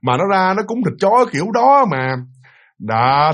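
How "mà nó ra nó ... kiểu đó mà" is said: higher, exasperated scolding; grandmother ranting. Retold or imitated. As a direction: vent outrage at the family. Grandmother ranting about her grandchild.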